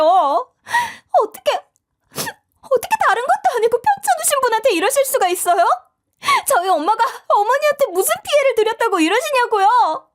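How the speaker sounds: high, anguished daughter-in-law on the edge of sobbing; tearful shouting outburst. Acted. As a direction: defend your sick mother, voice pitched high with tears. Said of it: "고래고래 소리를 쳤죠". (울먹이며 악쓰는 며느리)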